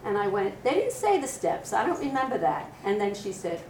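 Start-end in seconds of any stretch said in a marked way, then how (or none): 0.6-2.7 surprised. Retold or imitated. Retold startled protest.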